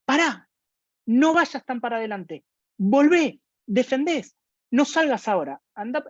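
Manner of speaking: acted-out parents yelling at their kids; imitating yelling parents. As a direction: call out urgent orders like a parent from the stands. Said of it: "Los padres y las madres gritando".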